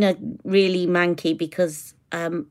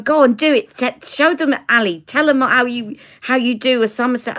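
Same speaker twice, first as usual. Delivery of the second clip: egging on; 4 semitones higher than usual. Retold or imitated. Retold mum egging her on.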